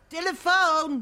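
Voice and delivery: insistent call across the house; calling out again. Acted. (aandringend roepen)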